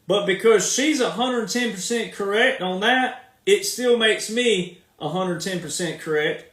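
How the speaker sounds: ordinary delivery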